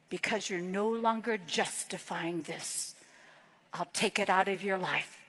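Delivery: softly voiced words of God, not truly whispered; gentle whisper. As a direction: hush it down, tender and calm. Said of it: "whisper to me".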